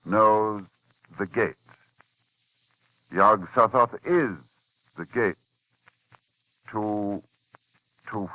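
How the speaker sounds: slow, halting recitation of an ancient text; hushed, deliberate reading of a dark spell; ominous reading. Acted. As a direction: read it like a forbidden incantation. Reads the Necronomicon passage aloud.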